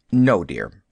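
firm, final refusal; very decisive. A narrator's reading. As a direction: shut the matter down firmly. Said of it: "very decisively".

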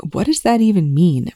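strained, tight-throated question. A narrator's reading. Volker asks Rush, strained and tight-throated. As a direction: squeeze it out through a tight throat. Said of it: "Volker asked through a tight throat".

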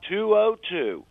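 slow, careful dictation of digits; slow number readout. Shown as a demonstration. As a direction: read each digit out slowly. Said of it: "why don't you give that number again".

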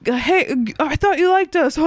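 high-pitched imitation of a needy guy; put-on attention-seeker's whine; mock screaming for attention. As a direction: call out, begging to be noticed. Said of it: "he's always screaming for attention".

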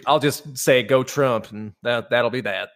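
put-on lightly pinched rock singer's voice; a hint of a smug rocker; impression of a rock singer. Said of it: "That's my Kid Rock impression".

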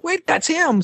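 high sudden recognition; fan realizing. Retold or imitated. Fan realizes the host is walking by, high surprised. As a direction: snap into recognition. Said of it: "And I went".

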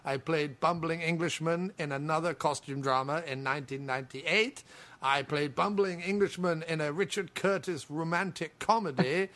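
mock Hugh Bonneville. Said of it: "Hello, I'm Hugh Bonneville".

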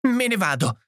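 high, tearful announcement; sobbing. A narrator's reading. Edith leaving in tears, sobbing. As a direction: say it as if through sobs. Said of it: "singhiozzò".

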